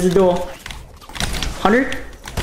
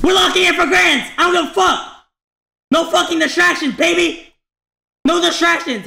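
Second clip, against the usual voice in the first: hyped gamer bro; 8 semitones higher than usual. Real, not acted. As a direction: pump yourself up, yelling. Hyping up for grands.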